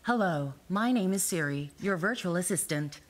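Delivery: lightly voiced American Siri; calm virtual assistant, American. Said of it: "that was the American one".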